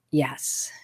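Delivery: low, soft, reluctant yes; retold quiet admission. Daughter owns up to mom on the phone, quiet and low. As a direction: admit it quietly. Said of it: "it got really quiet".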